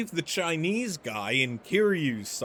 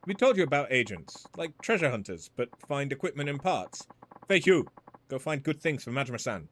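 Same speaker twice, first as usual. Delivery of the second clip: put-on cheerful Chinese-accented shopkeeper. Woman greeting Majima, Chinese accent. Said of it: "Not the same without the accent".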